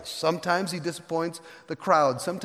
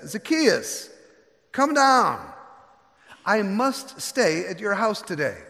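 calling up to him; 4 semitones higher, 5 dB louder, slower than usual. Acted. Jesus calls up into tree.

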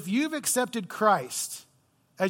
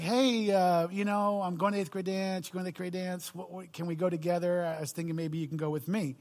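a touch of nervous, softer asking; shy mumble; 5 dB quieter than usual. Retold or imitated. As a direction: shyly ask a crush to the dance. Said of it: "I'm really a shy guy".

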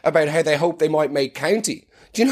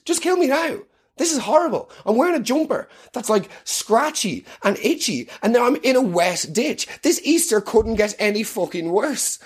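whiny complaining; 6 semitones higher than usual. Pretend. Miserable rebel in ditch.

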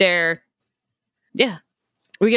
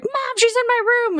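put-on scared kid; 13 semitones higher than usual. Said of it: "he's like".

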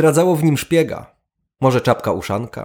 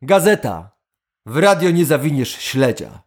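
calm. Acted. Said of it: "odparł spokojnie Stirlitz".

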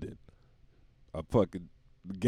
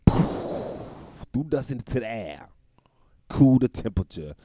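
whispered, slowed for mock drama; dramatic whisper; 3 semitones higher, 5 dB louder, slower than usual. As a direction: hush it like a campfire tale. Dramatic whispered science telling.

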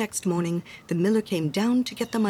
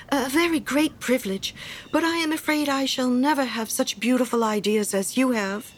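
lightly voiced meek admirer, higher in pitch; humble little Hans; 5 semitones higher than usual. Hans flattering the miller's fine ideas, humble. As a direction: admire humbly, doubting yourself.

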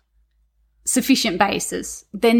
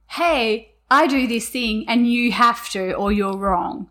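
slow, insistent telling; mock know-it-all insistence, measured pace; dictating; slower than usual. Shown as a demonstration. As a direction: lay it down as the only right way. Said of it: "there's a difference between saying".

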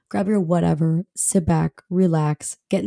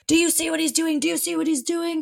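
high-pitched mock complaint; imitated indignant neighbor; 8 semitones higher, 3 dB quieter than usual. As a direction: mimic an outraged woman appealing to a witness. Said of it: "flies open her door again and is like".

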